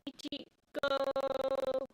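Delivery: slow Japanese countdown through a robotic filter. Real, not acted. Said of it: "we should sound like robots".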